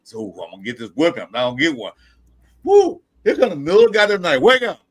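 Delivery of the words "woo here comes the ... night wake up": loud high yell imitating dad; hammed-up wake-up shout; mock wake-up yell. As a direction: bellow it like dad barging in at night. Dad bursts in at night.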